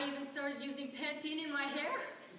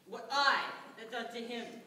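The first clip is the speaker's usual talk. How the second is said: indignant echo; 3 semitones lower than usual. Acted. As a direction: repeat his words in disbelief. Indignant echo of his claim.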